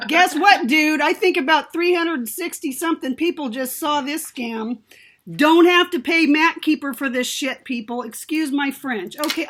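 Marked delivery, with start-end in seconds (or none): 0.1-8.0 loud, exasperated rant; fed-up outburst. Real, not acted. To the viewers about the scam popup, a loud fed-up rant. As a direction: let rip at the scam, fed up for real.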